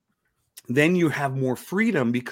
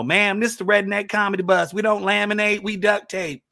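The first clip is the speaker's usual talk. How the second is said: redneck character voice; 6 semitones higher, 4 dB louder than usual. Retold or imitated. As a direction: answer the corporate lady in a proud redneck voice. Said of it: "I was still in my character voice".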